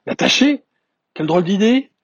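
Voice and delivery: put-on high, incredulous child's exclamation; shocked. A narrator's reading. Little prince reacting to tying up the sheep, shocked. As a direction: recoil from the idea, pitch shooting up. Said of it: "parut choquer le petit prince".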